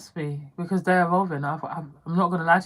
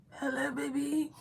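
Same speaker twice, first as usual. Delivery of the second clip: high, thin computerized robot voice; 9 semitones higher, 10 dB quieter than usual. Retold or imitated. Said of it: "sounded like you had a computer in your voice".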